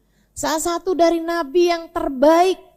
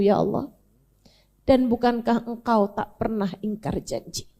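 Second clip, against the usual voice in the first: grieving plea. Acted. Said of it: "Nabi Nuh bilang".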